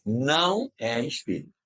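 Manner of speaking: long emphatic NÃO, settling on "espírita"; stress on NÃO. Real, not acted. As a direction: hammer home the NÃO. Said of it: "Vocês ouviram o que eu disse?".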